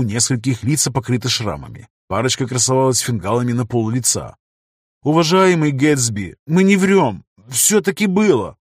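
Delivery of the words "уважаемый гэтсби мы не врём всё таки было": loud, upset and pleading; upset exclamation. Acted. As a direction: cry out in distress. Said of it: "расстроенно воскликнул один из шахтёров".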